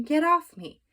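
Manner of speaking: high, loud panicked plea; desperate plea. A narrator's reading. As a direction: shove and beg at once. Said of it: "said Mister Watson".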